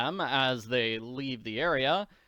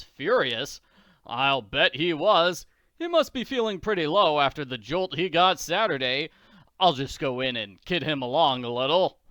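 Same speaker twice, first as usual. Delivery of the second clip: louder, hearty tycoon scoffing; a bluff rich man relishing it; Daddy Warbucks voice; 6 dB louder than usual. Acted.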